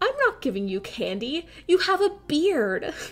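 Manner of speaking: indignant, affronted tone. Retelling the man at the door refusing a bearded trick-or-treater, mock-offended refusal. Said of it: "he was so offended".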